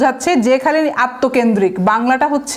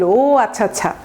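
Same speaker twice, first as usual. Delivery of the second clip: lightly acted gloating acknowledgement; mock smug. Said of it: "অহংকারী look দিল".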